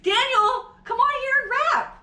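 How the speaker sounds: high, loud laughing summons; laughing call-out. Real, not acted. Calling Daniel to come rap, high laughing shout. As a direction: call him out through laughter.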